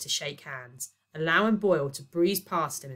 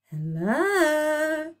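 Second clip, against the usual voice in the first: breathed; 12 semitones higher, 6 dB louder than usual. Acted. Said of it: "Aphrodite breathed down the line".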